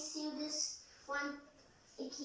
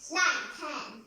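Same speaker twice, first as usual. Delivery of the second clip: counting to ten through teeth; 11 dB louder than usual. Real, not acted. Child straining to hold swim pose.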